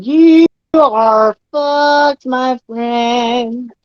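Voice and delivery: slow, teasing sing-song. Acted. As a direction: draw it out like a playground taunt. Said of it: "In a little sing-song voice".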